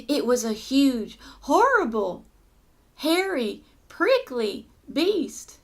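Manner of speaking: big storyteller emphasis with pauses; dramatic story reading. Acted. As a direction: list the monster's features with relish, word by word. Reads story to children.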